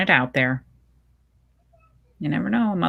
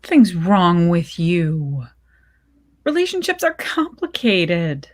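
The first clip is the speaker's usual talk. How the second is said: frowning voice. Acted. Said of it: "I hear the frown in her voice".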